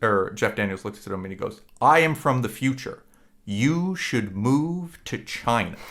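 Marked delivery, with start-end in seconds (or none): 1.8-5.8 slow, grave, weighted delivery; dead serious warning. Retold or imitated. Boss from the future warning his employee, slow and grave. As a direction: lean in and say it like a forbidden secret. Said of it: "a very serious moment".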